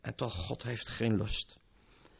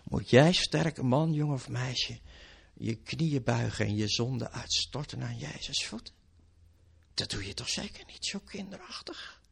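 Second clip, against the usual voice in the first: devil whispering temptation. Acted. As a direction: coax like a tempter. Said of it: "Hij zal misschien influisteren".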